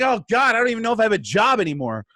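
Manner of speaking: comic self-pity; mock despair. Bodyguard stuck in the rain fearing for his job, wailing.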